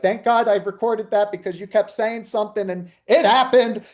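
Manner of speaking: high-pitched imitation of relieved clients; excited client. Medium quotes clients amazed it came true, high and excited. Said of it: "people are like".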